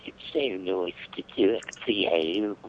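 put-on British accent. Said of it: "great British accent".

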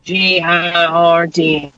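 slow letter by letter spelling; spelling out slowly. Real, not acted. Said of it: "Could you spell your last name".

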